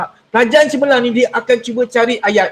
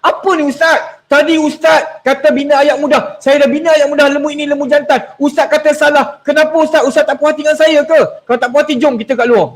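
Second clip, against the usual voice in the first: mock angry student; 2 semitones higher than usual. Retelling a pupil scolding the Ustaz, mild mock anger. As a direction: act out the pupil's challenge, mildly affronted. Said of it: "Dia marah saya".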